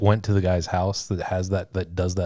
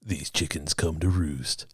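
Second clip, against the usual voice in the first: movie trailer voice; 3 semitones lower, 5 dB quieter, slower than usual. Acted. Trailer voice build-up.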